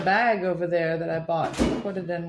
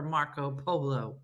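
hushed, softer voice with a laugh; mock whisper; 5 semitones lower, 8 dB quieter than usual. Joking about quiet fans at polo, mock whisper. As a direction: drop to a slow hush for the name. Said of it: "How are you gonna whisper".

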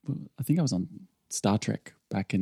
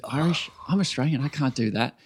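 higher-pitched incredulous question, then protest; retold startled protest; 4 semitones higher than usual. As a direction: act out baffled objection, pitch raised. Retelling startled protest at accent request.

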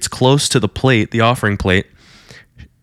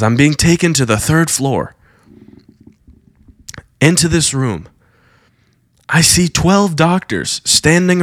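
raised, breathless visionary voice, higher; rapt vision report; 4 semitones higher than usual. Retold or imitated. Preacher tells thousands what he sees, in a higher awed voice. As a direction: describe the vision as it unfolds, awed.

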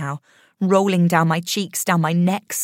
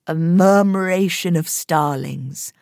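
awed, slow wonder; 4 dB louder, slower than usual. Acted. Spurling names the birds, awed.

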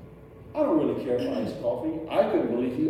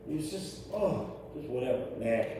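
much softer, apathetic mumble; bored shrug; 2 semitones lower, 8 dB quieter than usual. Retold or imitated. Preacher mimicking a jaded churchgoer, bored. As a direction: sound like you couldn't care less.

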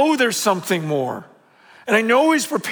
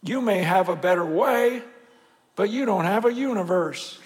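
J. Vernon McGee; 4 dB quieter than usual. Retold or imitated. Pastor lightly imitating a radio preacher's odd voice. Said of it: "He had a weird voice".

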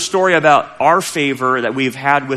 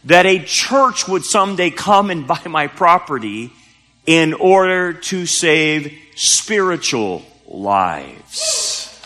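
slow, weighty delivery, higher than usual; retold realization; 4 semitones higher, slower than usual. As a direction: draw out the final words for emphasis. Preacher voices owner's solemn realization.

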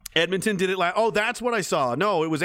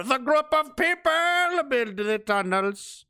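spooky voice; 9 semitones higher, much slower than usual. Acted. Reading a conspiracy comment.

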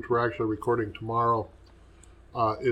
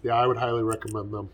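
mouth full. Real, not acted. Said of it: "As I'm munching on one right now".

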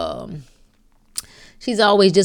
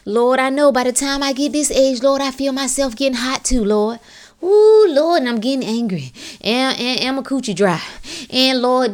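high mimicked wail of complaint; mock lament; 5 semitones higher than usual. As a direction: imitate a woman moaning to the Lord. Mimics older woman lamenting her symptoms.

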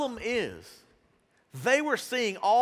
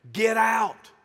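loud, forceful "Get out"; acted commanding yell; shouted order; 6 dB louder than usual. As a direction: shout them out of the room. Jesus throwing the scoffers out.

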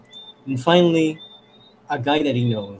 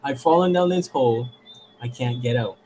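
mock yell for help, pitched up; retold annoyed yell; 2 semitones higher than usual. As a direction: imitate an irritated call for help. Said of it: "starts to get pissed off and he starts yelling".

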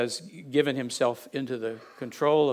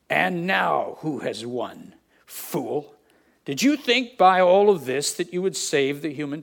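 a gloating witch, higher and louder as she triumphs, slowing to a dead stop at the end; quivering witch voice; 4 semitones higher, 6 dB louder than usual. Acted. White Witch gloating over Aslan before the blow, quivering and triumphant. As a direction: sneer at the bound lion, then let the last words fall. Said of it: "said in a quivering voice".

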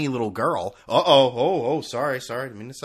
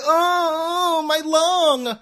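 mock sick kid; 6 dB louder, much slower than usual. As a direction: groan it out like a pitiful patient. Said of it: "they're just sitting there saying".

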